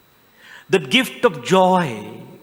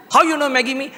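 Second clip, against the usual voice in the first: astonished question; 10 semitones higher, 4 dB louder, faster than usual. Retold or imitated.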